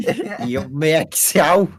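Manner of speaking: put-on slow, drawn-out Australian accent. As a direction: stretch it in a jokey Australian accent. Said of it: "That's my Australian accent".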